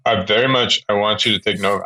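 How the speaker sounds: yawning mid-sentence. Real, not acted. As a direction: talk through a yawn. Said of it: "I don't know why I'm yawning".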